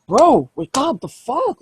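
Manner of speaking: high, startled bro shouting wake up; a kinfolk shaking his dazed buddy, high and startled; startled kinfolk yell. Acted. Kinfolk slapping the dazed werewolf awake, high startled yell.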